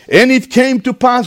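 measured, declaimed Bible reading; scripture reading. A narrator's reading. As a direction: read scripture out deliberately to a congregation.

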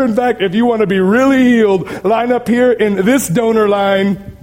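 lightly voiced faith-healer sales pitch; mock a TV healer calling up donors; charlatan healer. Preacher mimicking charlatans selling healing to donors, mock hawking. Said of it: "They weren't saying".

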